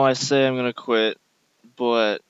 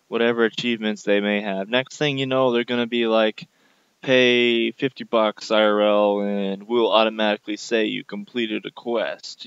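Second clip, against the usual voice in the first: angry rant. Real, not acted. Ranting against game updates.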